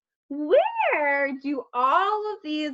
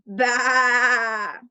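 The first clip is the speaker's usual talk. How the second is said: bleating sheep; 3 semitones lower, 3 dB louder than usual. Pretend. Sheep sound for children.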